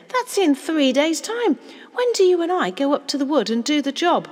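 put-on high, loud child's voice; urgent, shocked questioning; alarmed astonishment. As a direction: blurt it out, agitated by the news. Child alarmed at nearness of date.

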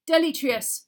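high, loud command; shouted spell. A narrator's reading. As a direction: shout the incantation. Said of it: "Mister Diggory shouted".

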